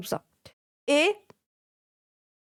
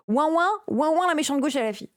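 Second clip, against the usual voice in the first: mocking whine; 3 semitones higher than usual. Mocking whining critics.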